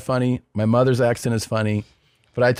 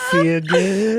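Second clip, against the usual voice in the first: higher-pitched mock Asian accent; 7 semitones higher than usual. Shown as a demonstration. Comic showing off his best, mock Asian accent. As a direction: put on a caricatured Asian accent. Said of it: "What's your best Asian accent?".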